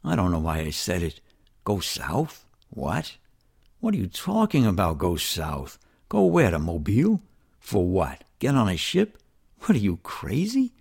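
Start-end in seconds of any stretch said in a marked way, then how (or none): 1.6-2.5 puzzled, rising question at normal volume. Acted. Questioning the shout he heard. 2.7-10.7 incredulous questioning. Acted. Arguing with himself, incredulous.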